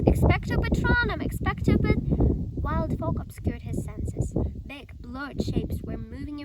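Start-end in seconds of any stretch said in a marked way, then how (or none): 0.0-2.0 shouted high and loud; yelled spell. A narrator's reading. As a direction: yell the spell with all his might. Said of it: "Harry yelled".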